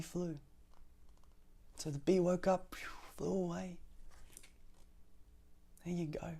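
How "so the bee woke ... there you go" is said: soft unvoiced whisper. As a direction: whisper the ending. Ending hushed.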